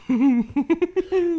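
high burst of laughter; a short, bright real laugh; amused laugh. Real, not acted. Host laughing about the buyer who won't test-ride, amused laugh.

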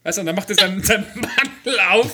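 furtive whispering pusher; shady dealer. Pretend. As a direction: play a sleazy guy flashing his coat. Shady dealer in coat acted out.

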